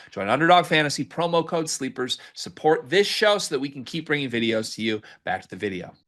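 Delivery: quick upbeat sponsor read. Acted. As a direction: sell it like a podcast ad.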